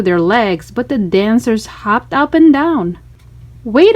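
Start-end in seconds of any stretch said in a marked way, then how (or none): 3.6-4.0 higher, louder shout. A narrator's reading. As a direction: cry out trapped among dancers. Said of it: "I shouted".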